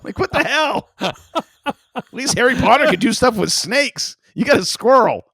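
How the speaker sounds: loud, high-pitched comic rant; mock outrage. Friend mocking a squirrel-controlling trick, mock outrage. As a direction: scoff loudly in hammed-up indignation.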